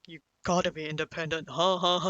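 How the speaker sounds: mildly mocked scolding, fast; nagging father. Father repeating advice to his silent kid, nagging. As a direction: imitate a parent pushing for answers with repeated huhs. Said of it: "he keeps saying these things".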